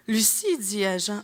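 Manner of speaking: slow, measured reading of a line; rereading aloud. Acted. Jostled metro reader rereading one phrase, slow deliberate reading. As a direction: read it slowly, starting the sentence over. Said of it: "relire la même maudite phrase".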